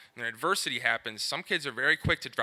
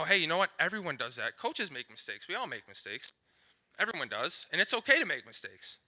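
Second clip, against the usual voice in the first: put-on softer, gentle encouragement to a kid; reassuring coach; 3 dB quieter than usual. Shown as a demonstration. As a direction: comfort him after his mistake, quietly. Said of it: "we gotta let them know".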